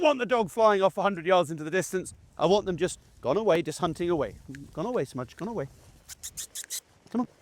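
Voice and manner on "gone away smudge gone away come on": much softer, unhurried; calm quiet command. Shown as a demonstration. Handler quietly sending Smudge off to hunt, calm and soft. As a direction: ease the dog off gently. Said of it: "It's a much calmer, quieter".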